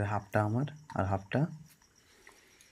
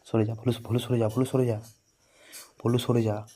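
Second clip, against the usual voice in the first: raised voice telling the dog to move off; calling out; 4 dB louder than usual. Real, not acted. Owner shooing the dog Bhulu away, firm raised call. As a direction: shoo the dog away firmly.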